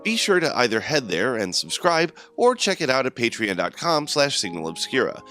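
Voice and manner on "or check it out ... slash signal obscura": usual speaking voice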